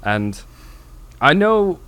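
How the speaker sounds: emphatic, measured posh British gent; posh British accent. Acted. Posh man interviewed on the street, earnest upper-class British pronouncement. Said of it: "posh British accent".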